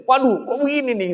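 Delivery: half-acted dismay at what he saw; retold shock. Preacher retells seeing the zikir leader in shorts, mild mock shock. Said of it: "Kaget saya itu".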